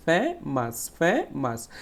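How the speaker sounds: "ফে, মাস" broken into two separate beats; syllable by syllable. Shown as a demonstration. Teacher counting syllables for pupils, "ফে, মাস" split in two. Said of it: "কয়বার উচ্চারণ করা হয়েছে".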